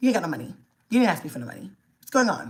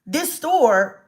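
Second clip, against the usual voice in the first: panicked mom; 7 semitones higher, slower than usual. Retold or imitated. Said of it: "I'm like".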